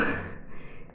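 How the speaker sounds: breathy sob-laugh. Real, not acted. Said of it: "Eu fiquei emocionada".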